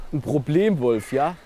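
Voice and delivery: slow, incredulous repeat rising to a loud outburst; worked-up protest. Acted. Friend objecting to the filmmaker's problem-wolf claim, worked up. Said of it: "Jetzt komm mal wieder runter".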